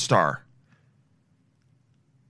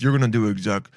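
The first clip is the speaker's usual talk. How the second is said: creepy low voice; 4 semitones lower, faster than usual. Retold or imitated. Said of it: "how do I make his, my voice even that low?".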